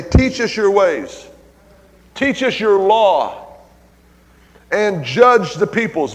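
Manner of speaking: each word drawn out, TEACH stressed loud; slow emphatic plea. Acted. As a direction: lean on "Teach" and stretch every word. Preacher voicing the nations' plea.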